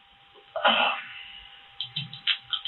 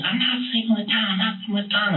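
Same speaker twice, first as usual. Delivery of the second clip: higher pitched mock denial from the wife; imitating wife's denial; 10 semitones higher than usual. Wife denies affair to husband, voiced high and insistent. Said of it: "And she said".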